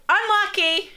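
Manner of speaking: high-pitched mock yell; imitated sideline scream. Parent shouting after a kid's yellow card, mock scream. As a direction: call it out high, like a soccer parent. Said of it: "and he screams out".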